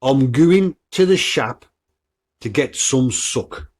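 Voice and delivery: Black Country dialect saying, stretched out slowly; Black Country accent. Shown as a demonstration. Podcaster quizzing listeners on local sayings, Black Country accent. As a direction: demonstrate a drawn-out Black Country phrase. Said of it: "listen to the way I talk".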